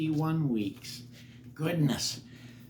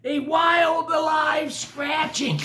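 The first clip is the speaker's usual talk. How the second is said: building excitement; 12 semitones higher, 4 dB louder than usual. A narrator's reading. Rising excitement in narration.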